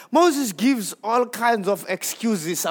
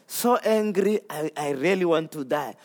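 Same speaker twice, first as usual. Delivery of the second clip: softer, sinking mock despair; sulking Jonah again; 4 semitones lower, 5 dB quieter than usual. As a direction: droop into a whiny sulk. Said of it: "Jonah says".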